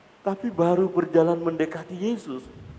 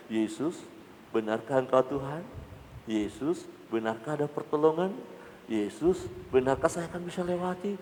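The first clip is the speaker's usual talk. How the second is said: softer, hesitant questioning; doubting prayer; 7 dB quieter than usual. Pretend. Wavering believer questioning Jesus, softly and unsure. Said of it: "kita mulai bimbang".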